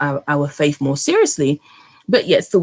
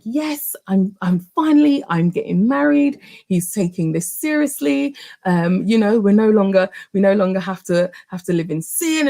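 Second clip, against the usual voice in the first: raised, eager and bubbly; bride-to-be gushing to herself after saying yes, excited; 4 semitones higher than usual. Retold or imitated. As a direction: gush it like a happy bride-to-be. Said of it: "I'm super excited".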